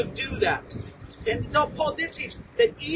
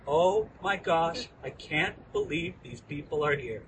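stunned dismay; 6 semitones lower, 3 dB quieter than usual. Retold or imitated. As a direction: breathe it out as if caught by enemies. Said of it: "Paul's like".

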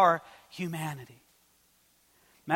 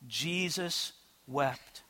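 slow, soft, lowered voice; hushed verse reading; 4 semitones lower, 8 dB quieter, much slower than usual. Acted. Preacher quoting verse thirty-five to friends, hushed and slow. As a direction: let the verse land softly and slowly.

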